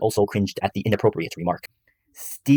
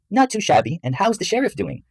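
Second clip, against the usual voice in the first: high-pitched flirty wife voice; giggly wife; 12 semitones higher than usual. A narrator's reading. Wife teasing her husband, high giggly voice. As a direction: pitch it way up, playful. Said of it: "Sally giggled and swayed in his arms".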